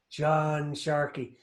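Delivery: slow, drawn-out mock Irish accent; the speaker's Irish accent. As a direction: imitate a bad Hollywood Irish accent, drawn out. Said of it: "what I can only describe as being a Tom Cruise".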